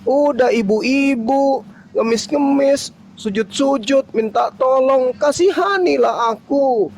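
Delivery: appalled recounting; outraged. Real, not acted. Outraged recap of begging. (nada tinggi penuh amarah)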